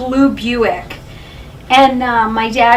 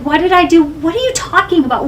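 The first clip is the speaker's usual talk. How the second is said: retold bewildered protest; 5 semitones higher than usual. Retelling her protest to dad.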